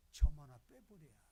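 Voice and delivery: a sudden loud shout to the pews; exhorting shout. Real, not acted. Pastor urging his flock with a loud shout. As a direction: punch it out like a fiery preacher.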